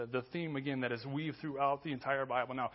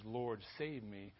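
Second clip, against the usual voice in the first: low, soft and slow; subdued, drawn-out reading of a plea; understated plea; 4 semitones lower, 5 dB quieter, much slower than usual. Shown as a demonstration. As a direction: say it mildly, with no urgency at all. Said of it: "I don't think Peter's".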